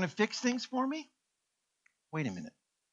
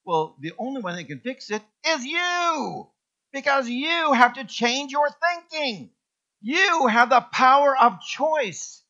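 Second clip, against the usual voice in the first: God's firm voice; 7 semitones higher, 7 dB louder than usual. Retold or imitated. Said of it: "God says".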